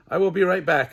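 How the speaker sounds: called out loud to Mom; yelled. A narrator's reading. Kid yelling to Mom from the basement stairs. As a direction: shout it across the house. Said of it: "I yelled".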